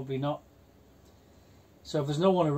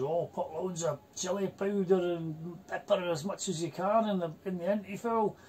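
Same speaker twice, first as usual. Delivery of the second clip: put-on Scottish accent; 4 semitones higher than usual. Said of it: "he's a Scottish guy".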